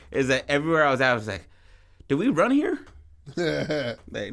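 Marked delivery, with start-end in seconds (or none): 2.1-2.8 mock out of breath. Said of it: "when I was heavier".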